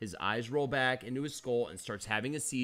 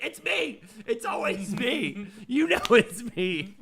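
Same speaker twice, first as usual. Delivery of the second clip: high, exasperated mock shout; exasperated yelling; 8 semitones higher, 4 dB louder than usual. Boyfriend to frightened girlfriend at bedtime, exasperated yelling. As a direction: protest it, pitched way up.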